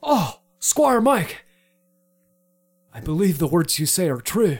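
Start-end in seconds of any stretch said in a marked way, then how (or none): 0.0-1.4 slow, high, hammed-up cry; dramatic lament. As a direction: wail his name like a tragic hero.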